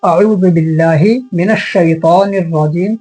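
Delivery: joined-up recitation without pauses; measured, continuous Arabic recitation; all in one go. Shown as a demonstration. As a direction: recite the whole phrase in one connected run. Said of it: "अगर मैं एक साथ बोल दूंगा".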